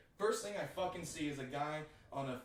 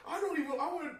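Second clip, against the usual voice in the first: much higher and louder at the end; high laughing protest; 9 semitones higher, 10 dB louder than usual. Retold or imitated. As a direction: whine it out, laughing. Retold reluctant protest.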